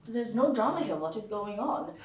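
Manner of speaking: put-on clinical German accent, no drama. German boyfriend to his dramatic date, detached German accent. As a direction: imitate an unruffled German. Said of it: "he went in that accent".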